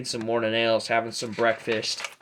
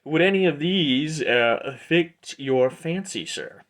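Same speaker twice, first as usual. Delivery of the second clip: louder, higher shopkeeper voice, dropping on the last word; obliging merchant Aldor; 5 semitones higher, 5 dB louder, slower than usual. Acted. Aldor shows his weapons to the customer, obliging merchant. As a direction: present the wares with salesman's flourish. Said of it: "And he goes".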